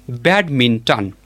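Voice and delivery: "badminton" said slowly, stressing bad; stress on first syllable. Shown as a demonstration. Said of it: "with the stress on the first syllable".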